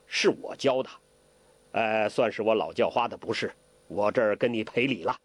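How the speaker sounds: put-on smooth things over as the old beggar; Hong Qigong, lightly voiced. Hong Qigong makes peace with Ke, easy-going.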